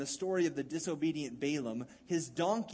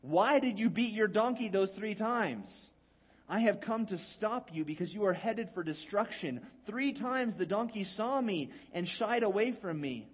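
demanding angel; 3 semitones higher than usual. Acted. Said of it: "And the angel demanded".

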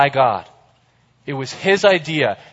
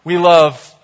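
excited shout; 3 semitones higher, 8 dB louder than usual. Pretend. Acting out careless love list.

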